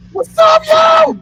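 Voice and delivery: loud, high hype-man shout. Pretend. Host hyping the Lizard Man festival in a loud, high shout. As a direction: pump up the crowd like a promoter.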